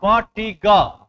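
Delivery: फटीग drawn out slowly, syllable by syllable; sounded out slowly. Shown as a demonstration. Teacher sounding out a word for the class, slow and syllabic.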